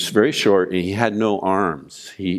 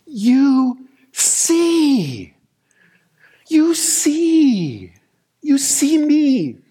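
much higher, strained tearful voice, slow and broken; retold weeping; slower than usual. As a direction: relive the moment of weeping in prayer. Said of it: "I just began to weep from the depth of my gut".

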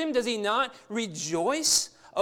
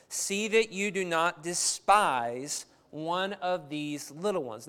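slow, weighty reading. Shown as a demonstration. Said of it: "what he says here is".

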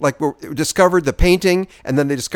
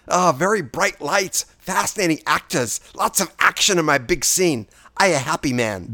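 mild mock Asian accent; 2 semitones higher than usual. Host keeps up a lightly voiced mock accent about the set. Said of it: "they didn't like my accent".

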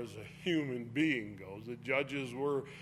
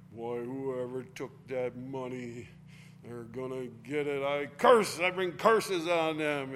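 mock cursing; 4 dB louder than usual. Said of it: "She's cursing and cursing".

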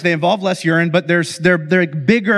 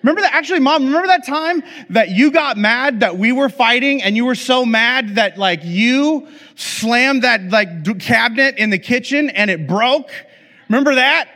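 put-on higher, eager tattling kid voices; cheeky kids; 6 semitones higher than usual. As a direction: kids gleefully outing mom. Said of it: "And they're like".

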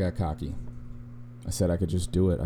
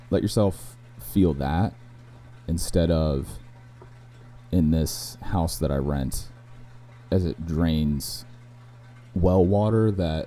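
sultry narrator; slower than usual. Pretend. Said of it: "Not only does it get my sultry tone".

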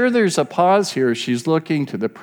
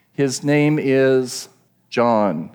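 "His name is John" slow, with a pause before "John"; stress on John; much slower than usual. Shown as a demonstration. Preacher reading the tablet words slowly, weight falling on "John". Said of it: "the emphasis is on the".

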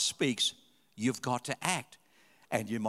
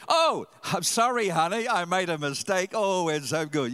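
higher, louder teasing wife; mock his apology with glee; imitating wife gleefully; 4 semitones higher, 5 dB louder than usual. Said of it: "my favorite ringtone".

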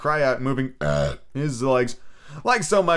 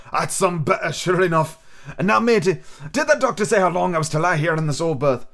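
put-on raised, rough old seaman wheedling for rum; a sick old sailor coaxing the boy; old pirate captain; 6 semitones higher than usual. Captain after drinking.

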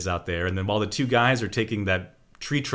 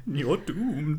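ominous warning voice; 5 semitones higher, 6 dB quieter than usual. Retold or imitated. Echoing Crazy Ralph.

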